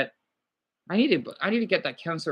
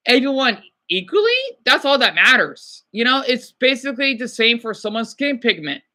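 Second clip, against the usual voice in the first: passionate; 5 semitones higher than usual. Real, not acted. Passionate speech on respecting beliefs.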